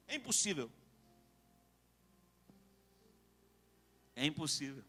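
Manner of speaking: soft, low and grave; hushed verdict. Real, not acted. Preacher telling church there is no way back, low and hushed. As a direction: drop to a hush, let it sink in.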